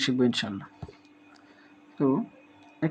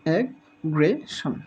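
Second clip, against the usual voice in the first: slowed syllables; much slower than usual. Shown as a demonstration. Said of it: "syllable ভেঙে ভেঙে".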